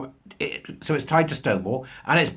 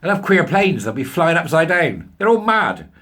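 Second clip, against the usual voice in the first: mock outrage; 4 semitones higher, 5 dB louder than usual.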